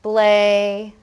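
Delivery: "blazing" split as blay-zing, ending in a full ing. Shown as a demonstration. Teacher showing the suffix, "blazing" with full ing. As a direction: sound out "blazing" in two slow parts. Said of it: "this word could say".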